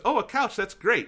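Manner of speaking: high-pitched sweet imitation; delighted nice lady. Goodwill lady welcoming a donated couch, high-pitched delight. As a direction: coo it up high, as the pleased helper.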